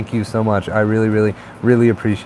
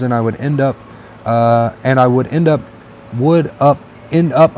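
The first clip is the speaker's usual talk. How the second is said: stumbling and restarting while reading aloud; tongue-tied; 2 semitones higher, 4 dB louder than usual. Real, not acted. Streamer reading a viewer's comment aloud, tongue-tied. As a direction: trip over the words and retry. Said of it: "I'm getting tongue-tied".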